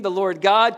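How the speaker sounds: "God" stressed within the running verse; emphasis on the name. Shown as a demonstration. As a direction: press on "God" as the key word. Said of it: "What's the emphasis?".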